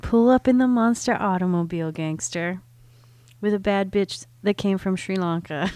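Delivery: mock white girl reading rap; hammed-up valley girl rap read. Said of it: "in my white girl voice".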